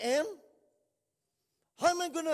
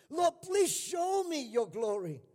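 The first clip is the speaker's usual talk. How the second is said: pleading cry out; 5 semitones higher than usual. Retold or imitated. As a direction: beg for God's glory with the whole voice. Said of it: "Moses cried out".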